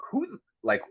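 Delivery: imitating a nasty high-pitched snap, held back in volume; retold angry comeback. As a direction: replay the insult with mock outrage. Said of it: "I got nasty with him".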